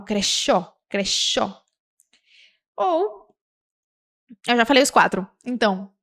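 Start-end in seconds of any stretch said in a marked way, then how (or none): 0.0-1.6 "crechó" with hushing sh for y, kre-SHOH; Uruguayan SH. Shown as a demonstration. Teacher quoting Uruguayans, "crechó" with a clear sh sound. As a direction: say "crechó" the River Plate way, with sh. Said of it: "os uruguaios, eles falam".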